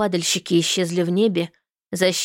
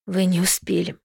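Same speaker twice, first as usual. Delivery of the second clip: breaking voice. Acted. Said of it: "срывающимся голосом произнесла Алиса".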